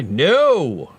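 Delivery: high, drawn-out playful no; mock protest. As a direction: stretch out a high mock refusal. Mock reply to own question.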